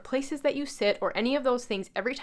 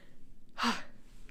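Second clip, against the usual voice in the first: out of breath sigh; 9 dB quieter than usual. Real, not acted. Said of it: "Man, I'm getting out of breath".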